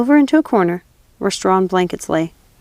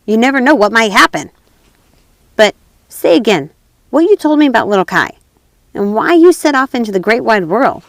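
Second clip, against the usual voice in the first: louder, gleeful menace; robber girl; 3 semitones higher, 5 dB louder than usual. Acted. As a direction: relish the knife, cruelly playful.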